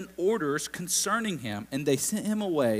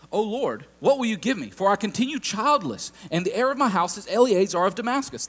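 pouty Abraham; 5 semitones higher than usual. Retold or imitated. Abraham pleading with God, higher and pouty. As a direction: complain to God, raised and aggrieved. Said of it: "Abraham getting a little bit pouty".

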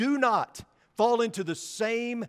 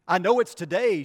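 loud, insistent mock yell at the receptionist; retold yell; 6 dB louder than usual. Irate patient yelling at the receptionist, a retold loud insistence. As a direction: insist on it, voice raised. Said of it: "she emphatically yells at the receptionist".

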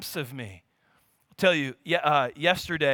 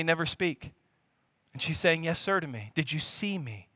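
lightly voiced Lord, gently nudging; gentle voice of the Lord. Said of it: "felt the Lord so gently nudge my spirit and say".

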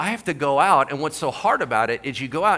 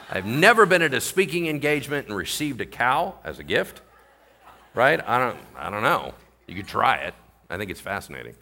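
ordinary delivery

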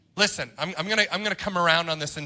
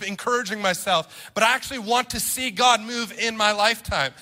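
fervent pulpit appeal, building in pitch; driving, emphatic sermon delivery; impassioned preaching; 3 semitones higher than usual. Real, not acted. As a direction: preach it with rising conviction.

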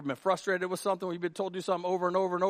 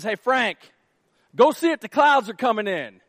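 calling out; 4 semitones higher, 7 dB louder than usual. Acted. Elijah voiced giving an order.

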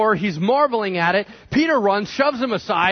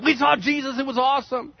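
excited; 8 semitones higher than usual. Retold or imitated. Disciples telling Thomas.

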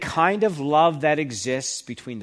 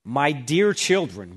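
slow, tender address; slow, fond "My dear children"; affectionate; slower than usual. Shown as a demonstration. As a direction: speak to them like a loving parent. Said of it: "a term of affection".

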